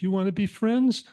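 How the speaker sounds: hopeful kitten asking to be friends. Acted. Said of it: "The little kitten said".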